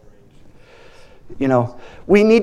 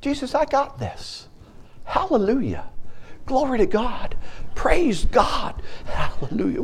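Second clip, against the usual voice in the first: higher, light-voiced confident praise; playful victorious prayer; bold declaration; 9 semitones higher than usual. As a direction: declare it like you mean it. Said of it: "you say".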